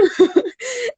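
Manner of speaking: high sobbing laugh; a laugh that breaks into a sob. Real, not acted. Crying recalling son's comfort.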